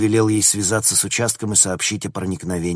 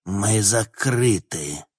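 put-on slow, drunk and nauseous; about to vomit; 2 semitones higher, much slower than usual. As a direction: force the words out, nearly retching. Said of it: "что он сейчас сблюёт". (медленно, сдерживая рвоту)

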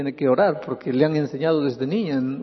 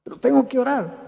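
put-on reluctant girl; 3 semitones higher than usual. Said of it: "se acordase así".

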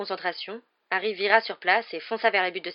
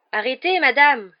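high, loud, drawn-out protest; exclaiming; 7 semitones higher, 11 dB louder, slower than usual. A narrator's reading. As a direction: protest to the referee. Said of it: "s'exclama Fred". (exclamation de protestation)

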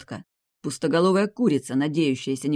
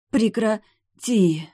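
higher, very slow stretched stop it; protesting cry; 7 semitones higher, 6 dB louder, much slower than usual. A narrator's reading. Vampiress protesting breathlessly under the hero. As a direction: drag the protest out.

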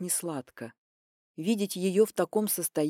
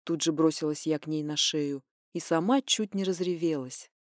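normal talking voice

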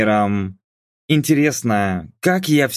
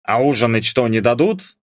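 plain reading voice

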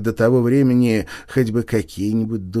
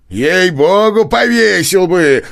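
louder, higher and slow, each word pressed; slow emphatic repeat; 8 semitones higher, 7 dB louder, slower than usual. Acted. Nozdryov insists he'd hang him, slow loud. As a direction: drag it out for emphasis. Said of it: "повторил Ноздрёв".

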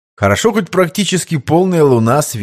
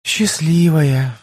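slow, wistful sigh of envy; heavy sigh; 4 semitones higher, much slower than usual. Acted. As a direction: sigh it out sadly. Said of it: "тяжко вздохнула Лиза". (с тяжким вздохом)

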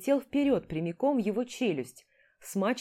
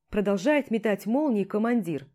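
ordinary delivery, nothing marked

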